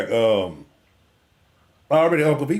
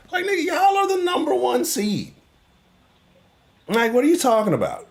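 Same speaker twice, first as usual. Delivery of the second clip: much higher, laughing in disbelief; can't believe what he's hearing; exasperated disbelief; 12 semitones higher than usual. Real, not acted. Host scoffing at Ravens fans playing underdog.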